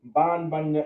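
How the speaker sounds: usual speaking voice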